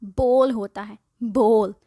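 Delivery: बोल as bole, one vowel; correct bowl. Shown as a demonstration. Teacher gives the right bowl. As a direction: say बोल with a long o. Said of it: "बाउल कुछ नहीं होता".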